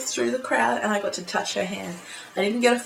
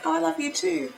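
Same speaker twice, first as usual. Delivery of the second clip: imitating the singer; 10 semitones higher than usual. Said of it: "And she would be like".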